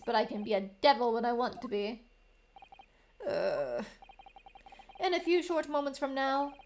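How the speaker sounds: hammy villainous prosecutor voice; smug prosecutor. Acted. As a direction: gloat with theatrical menace.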